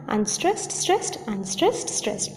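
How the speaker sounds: two measured pairs of "unstressed, stressed"; iambic beat. Shown as a demonstration. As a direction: softly count out "unstressed, stressed" in rhythm. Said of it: "iambic diameter".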